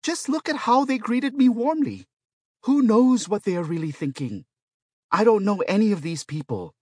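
very high, loud, worked-up pleading; alarmed protest. A narrator's reading. Patient warns the robot about the other patients, alarmed protest. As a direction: protest in mounting paranoid alarm. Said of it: "Yang Wei protested".

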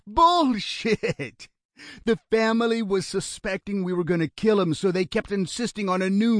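high, scornful explaining voice; Lionel, scornful kidnapper. Acted. Kidnapper explaining the photo ruse to his brother, scornful.

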